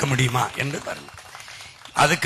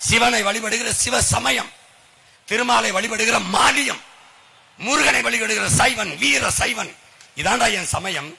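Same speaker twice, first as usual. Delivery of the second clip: raised-pitch slow declaration; proud proclamation; 6 semitones higher than usual. Real, not acted. Orator proclaiming his own faith to the crowd, raised and slow. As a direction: lift each phrase high and proud.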